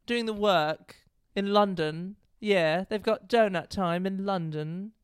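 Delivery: slow, put-on London accent. Shown as a demonstration. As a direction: have a go at a London accent, drawn out. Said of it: "Get me a second for my accent".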